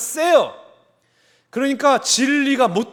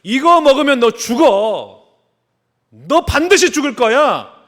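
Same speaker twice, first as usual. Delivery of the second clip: stern warning voice; 3 semitones higher, 5 dB louder than usual. Retold or imitated. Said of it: "하나님 뭐라고 말씀하세요?".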